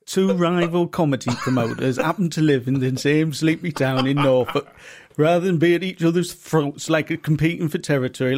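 light impression of a co-host; amateur imitation, drawing out the final words; Pablo. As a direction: have a stab at mimicking your partner's intro. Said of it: "pretend to be me".

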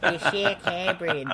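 failed Kiwi accent attempt. Commentator admitting they can't do it, shaky-attempt Kiwi accent. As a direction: have a slow go at a Kiwi accent. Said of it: "I can't do a Kiwi accent".

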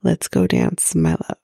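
deep, crooning translation; low translation. Shown as a demonstration. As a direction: drop way down low for the English line. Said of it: "in English, it means".

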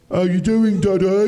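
put-on loud, high Black Country kid; Black Country accent. Kids greeting dad in the morning, Black Country accent. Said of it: "in a black country accent".

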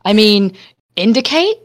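dry mock question indicate; sarcastic jab at a driver. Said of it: "I get really sarcastic and go".

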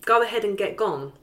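flat monotone read, no tune. Shown as a demonstration. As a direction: give the lyric with zero melody. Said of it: "try and do it in the most monotone voice".

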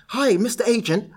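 a hint of a chirpy caller; eager sales pitch. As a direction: imitate a keen novice pitching. Acting out his naive sales pitch.

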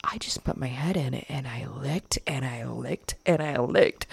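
badly faked English accent; attempted English accent. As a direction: imitate someone reading aloud with a shaky attempt at an English accent. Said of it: "somebody's reading in an English accent".

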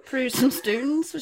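high, slow sing-song poet voice; lilting mock poem, drawn out slowly; mock Pam Ayres. Teasing co-host in a mock Pam Ayres lilt.

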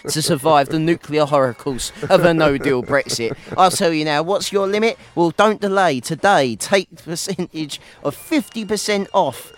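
advert voice. Pretend. Spoof advert pitch for pencils.

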